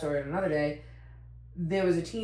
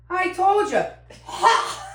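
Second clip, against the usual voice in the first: imitating Mac; 13 semitones higher, 9 dB louder, slower than usual. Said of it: "And he goes".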